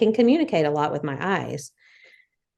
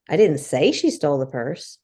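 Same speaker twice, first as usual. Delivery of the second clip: she stressed with a rise. Shown as a demonstration. Wife demoing emphasis, stress on she. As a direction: pick out the word she. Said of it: "because of the emphasis that was on it".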